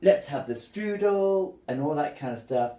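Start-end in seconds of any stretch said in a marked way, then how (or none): 0.0-1.5 happy Landa. Retold or imitated. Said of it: "he's happy".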